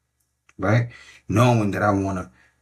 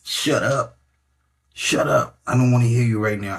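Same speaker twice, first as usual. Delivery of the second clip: higher, firm brush-off; telling the mind off; 4 semitones higher than usual. Retold or imitated. Coach shows telling your mind to shut up, firm. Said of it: "tell your mind".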